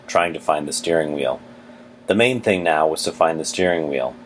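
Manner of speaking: reading a novel aloud; steady storytelling read; story narration. Acted.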